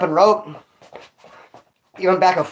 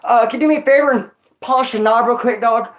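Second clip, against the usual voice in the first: cheeky request. Retold or imitated. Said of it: "I was like".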